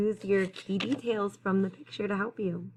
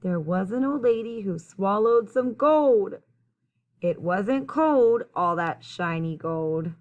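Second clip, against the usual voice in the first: clear, lilting rhymed storytelling; picture-book read-aloud; 7 dB louder than usual. A narrator's reading. Reader telling children about the old lady, lilting storytime read-aloud. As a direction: read the rhyme out to young listeners.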